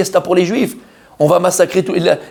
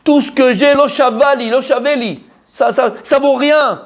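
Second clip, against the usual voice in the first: Haman sulking; 5 semitones higher than usual. Acted. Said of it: "Il dit comme ça".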